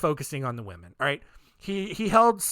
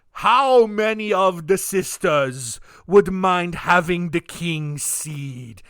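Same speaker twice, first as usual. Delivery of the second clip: creepy king's request; 5 dB louder, slower than usual. Retold or imitated. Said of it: "he goes".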